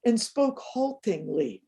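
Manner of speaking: unhurried, heartfelt poem reading; reading a prose poem aloud to an audience. Acted. Reads her poem.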